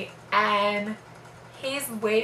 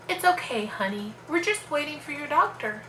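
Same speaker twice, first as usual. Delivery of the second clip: high, gentle imitation of a nurse; lightly acted comforting nurse; retold soothing nurse; 6 semitones higher than usual. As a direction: reassure the patient in a lifted voice.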